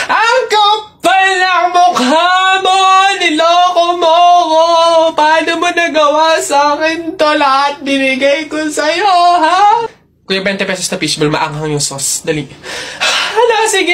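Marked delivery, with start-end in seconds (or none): 0.1-9.8 tearful shouted confrontation. Acted. Acted dramatic quarrel for video.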